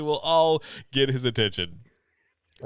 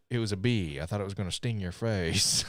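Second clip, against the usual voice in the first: Nicolas Cage impression; 4 semitones lower, 5 dB quieter than usual. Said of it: "I can't even do the impression right now".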